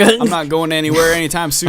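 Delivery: hammy New York tough guy; New York accent. Pretend. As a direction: play it like a Brooklyn cabbie. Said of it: "I was trying to do, like, a New York accent".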